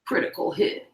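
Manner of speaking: unvoiced game echo; whispered echo. Echoing game phrase.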